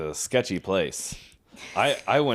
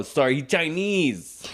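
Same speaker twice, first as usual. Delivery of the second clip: slow, higher mock Japanese accent; 4 semitones higher, slower than usual. Sushi worker excusing colleague by phone, mock Japanese accent. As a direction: imitate a Japanese accent, drawing it out. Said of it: "I'll do the accent".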